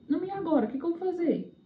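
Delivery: high, lightly voiced worried self-questioning; retold helplessness. Asking herself what to do, retold helpless worry. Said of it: "eu fico sem saber o que fazer".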